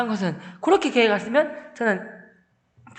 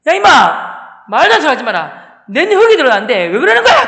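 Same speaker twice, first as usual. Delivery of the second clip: loud, higher-pitched scolding; father's angry shout; 4 semitones higher, 10 dB louder than usual. Retold or imitated. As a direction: bellow an outraged father's refusal. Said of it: "그 하면 주셨어요". (아버지가 버럭 고함치듯)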